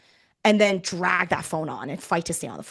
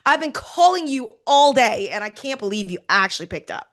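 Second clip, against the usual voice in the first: excited; 3 semitones higher than usual. Shown as a demonstration. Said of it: "It's like".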